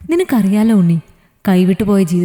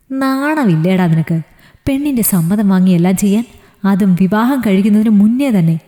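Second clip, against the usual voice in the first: contemptuous. Acted. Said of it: "അവൻ പുച്ഛഭാവത്തോടെ പറഞ്ഞു".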